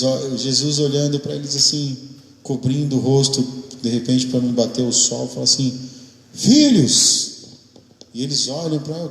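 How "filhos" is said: high, loud call across the water. Acted. Jesus calls to his disciples in the boat, a loud high call. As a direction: shout it to the boat far off.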